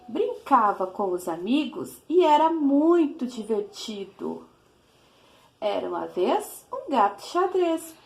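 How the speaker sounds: put-on lilting read-aloud of a children's rhyme; teacher reading a cat rhyme to her class, sing-song. Shown as a demonstration. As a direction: read it like a storybook for little ones. Teacher reads a rhyming poem to children.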